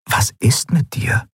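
whispered, slow; inner thought. A narrator's reading. Kai wonders about Endriel, a whispered thought. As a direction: think it silently, breath only. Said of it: "dachte Kai".

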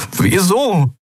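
high, strained croak; croaked question. A narrator's reading. Kai asks the admiral for a reason, croaking. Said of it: "krächzte Kai".

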